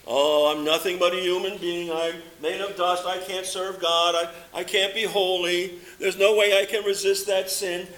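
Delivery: lightly voiced defeatist believer; mopey defeatist Christian. Preacher mimics defeatist Christians, a touch of self-pity. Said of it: "You hear it?".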